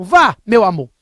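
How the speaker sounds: a hint of the wife, repeated; lightly voiced wife giving permission; imitating wife. Husband repeats his wife's permission for poker, lightly mimicked. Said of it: "Tô imitando ela".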